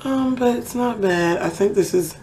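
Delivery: talking through mascara application; distracted, mouth held still for mascara; applying mascara. Real, not acted. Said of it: "I guess I can't talk and do mascara either".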